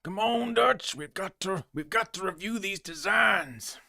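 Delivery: high, drawn-out Texas holler; Arthur Morgan. Acted. Streamer as outlaw urging Dutch to review designs, mock Texas impression. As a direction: plead in a hammed-up Texas outlaw drawl. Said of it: "That's my terrible Arthur Morgan impression".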